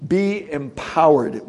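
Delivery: "be empowered" drawn out slowly, each word weighted; slow emphatic. Shown as a demonstration. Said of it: "but it's literally means".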